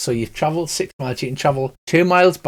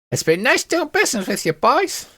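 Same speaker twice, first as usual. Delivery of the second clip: high, sweet-talking merchant voice; sly merchant woman; 12 semitones higher than usual. Acted. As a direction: purr the farewell like a sly trader. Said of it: "she says".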